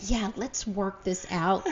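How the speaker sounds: slow, soothing mock calm; a gentle parent working it out, slowed down; calm reasonable. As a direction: talk it through patiently. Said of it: "And you're like".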